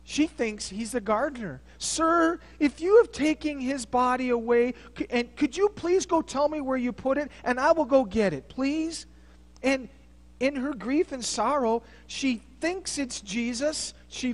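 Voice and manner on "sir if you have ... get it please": raised, higher voice, begging for the body; pleading plea. Acted. Mary begging the gardener for the body, raised and pleading. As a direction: plead urgently with the stranger.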